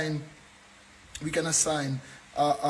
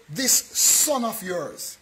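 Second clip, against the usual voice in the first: sarcastic; much slower than usual. Retold or imitated. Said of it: "that's with sarcasm".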